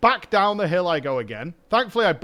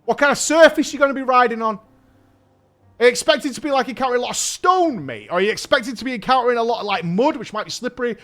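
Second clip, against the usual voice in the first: a bit higher and louder, eager bike expert; know-it-all cyclist; 4 semitones higher, 3 dB louder than usual. Retold or imitated. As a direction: quiz him like a smug cycling enthusiast. Bike elitist lecturing on tire pressure.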